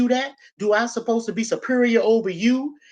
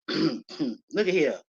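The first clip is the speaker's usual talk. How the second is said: "Look at here" drawn out slowly and softer; slow it right down to make them look; slow emphatic repeat; 6 semitones lower, 5 dB quieter, much slower than usual. Shown as a demonstration.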